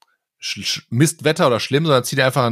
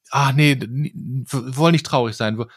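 mock childish whine; slower than usual. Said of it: "aufgesetzte Happiness".

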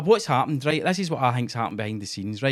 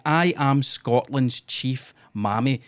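quoting Sturgeon; much slower than usual. Retold or imitated. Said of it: "She's on record".

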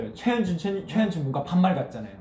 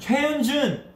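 sharp high call of a full name; scolding by full name; 11 semitones higher, 3 dB louder, slower than usual. Pretend. Calling member by full name.

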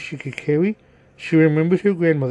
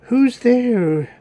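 put-on higher-pitched old lady calling out; old grandmother; 8 semitones higher, 4 dB louder than usual. A narrator's reading. Grandmother calling to whoever knocks, high old-lady voice. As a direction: call toward the door in a raised pitch.

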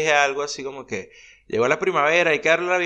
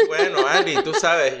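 laughing; slower than usual. Real, not acted. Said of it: "laughing at himself".

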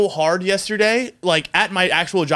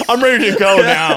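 laughing; 6 dB louder than usual. Real, not acted. Laughing after a song.

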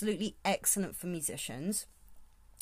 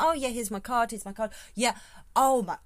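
put-on louder, pushy Essex salesman accent; 4 dB louder than usual. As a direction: hand out your card like a chirpy Essex salesman. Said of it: "I do an Essex accent".

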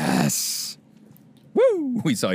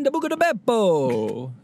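lightly hammed-up Italian accent, higher; a hint of a mock Italian restaurant voice; 7 semitones higher than usual. Italian host hamming up an Italian accent, pitched up. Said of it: "I give you the full reign".

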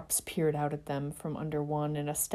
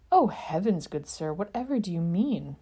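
a light touch of a prissy gentleman; airy, overly polite gentleman; prim polite toff. Acted. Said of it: "polite little tinkling".

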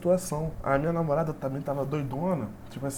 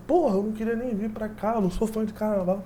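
retold angry rant; 4 semitones higher than usual. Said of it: "eu falei assim".

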